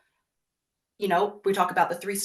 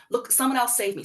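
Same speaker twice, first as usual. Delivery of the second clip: higher, helpless call for rescue; pleading child; 4 semitones higher than usual. Retold or imitated. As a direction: beg someone to save you. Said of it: "so quickly look externally for help".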